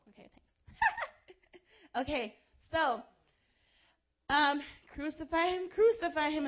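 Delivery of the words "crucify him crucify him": lightly raised retold shout; a hint of the mob's cry; mild mock shout. Preacher recalling the crowd's shout, mild mock shout. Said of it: "is what they were shouting".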